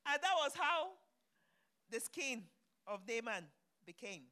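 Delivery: booming pulpit declaration; triumphant shout. Real, not acted. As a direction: ring it out as a victory. Preacher proclaims the healing.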